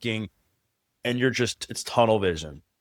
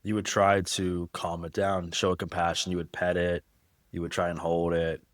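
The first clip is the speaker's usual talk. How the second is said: softer, gentle answer about calming a puppy; voice going down; 4 dB quieter than usual. Real, not acted. Describing how she'd comfort a scared puppy, soft and tender. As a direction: ease into a tender, soothing hush. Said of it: "you can hear how your voice is going down".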